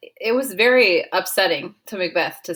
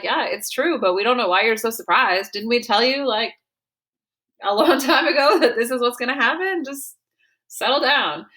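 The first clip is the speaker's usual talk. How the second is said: teasing witches; 5 semitones higher than usual. Retold or imitated. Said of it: "the witches are like".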